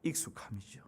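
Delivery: soft breathy whisper of 익숙함이죠; barely voiced remark; whispered aside. Real, not acted. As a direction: drop to a hush as if sharing a secret. Aside after the quote.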